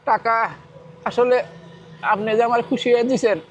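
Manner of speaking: high voice, really crying; tearful. Real, not acted. Poor food seller explaining tears of joy to benefactor, tearful. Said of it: "কান্না করতেছেন কেন".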